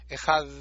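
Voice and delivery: Ejad, last d held and pushed; tongue between teeth. Shown as a demonstration. Teacher shows the dalet said with the tongue between the teeth. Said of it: "lengua entre los dientes".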